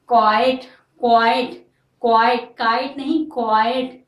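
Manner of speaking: drilling क्वाइट clearly; pronunciation drill. Shown as a demonstration. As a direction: repeat क्वाइट, not काइट. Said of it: "pronunciation पे ध्यान दीजिए".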